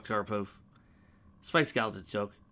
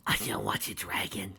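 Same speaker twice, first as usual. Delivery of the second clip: whispering; 2 semitones lower than usual. Acted. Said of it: "she yelled".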